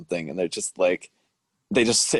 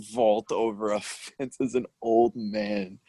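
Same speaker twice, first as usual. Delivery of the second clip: laughing; 3 semitones higher, slower than usual. Real, not acted. Laughing while describing.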